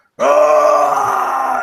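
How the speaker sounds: high, loud shriek.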